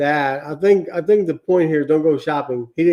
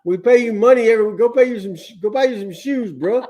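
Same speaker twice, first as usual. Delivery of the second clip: higher, laughing, exasperated scolding; exasperated coworker advice; 6 semitones higher than usual. Retold or imitated. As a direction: tell a buddy to just buy shoes. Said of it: "just told them".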